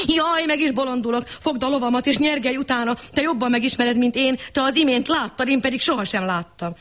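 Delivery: high, hurried panic; flustered lord. Acted. Lord to the mason, high and panicked. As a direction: gasp it out all in a rush.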